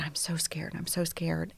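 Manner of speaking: soft, frightened repetition; scared. Retold or imitated. Frozen at the garage door, whispered fear.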